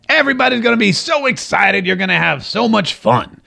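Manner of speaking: high put-on gushing, easing down at the end; Herman Cain impression. Host mimics Herman Cain promising everyone fun, gushing impression. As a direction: imitate an eager salesman-like promise, pitched high. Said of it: "Because that's how he talks".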